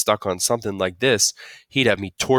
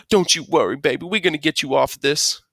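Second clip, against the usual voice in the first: mildly shaky Southern mother, pitched up; 8 semitones higher, 4 dB louder than usual. A narrator's reading. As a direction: reassure with a hint of Southern tremble. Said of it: "her voice was so shaky and southern".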